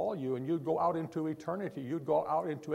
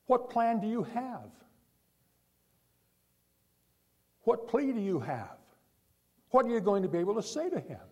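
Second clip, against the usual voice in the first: urgent preaching; 7 semitones higher than usual. Real, not acted. Preacher pressing hard questions.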